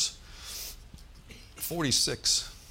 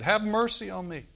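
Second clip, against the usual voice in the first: high, pleading call; pleading cry; 8 semitones higher than usual. Retold or imitated. Beggar calling out high over the crowd. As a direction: beg for mercy, reaching upward. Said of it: "He said".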